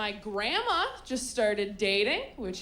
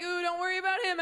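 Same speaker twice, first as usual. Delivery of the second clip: mock reassuring; 7 semitones higher, faster than usual. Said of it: "And I'm like".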